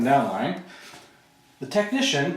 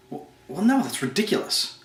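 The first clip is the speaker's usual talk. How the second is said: surprised denial; 6 semitones higher than usual. Acted. Bob caught out in role play.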